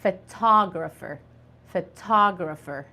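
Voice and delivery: photographer said as fə-TAH-grə-fer, stress on tog; model pronunciation. Shown as a demonstration. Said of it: "It is called".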